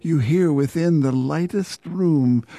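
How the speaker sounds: slow, solemn poem recital; poetry reading. Acted. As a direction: read it like a grave sonnet. Reads a poem aloud.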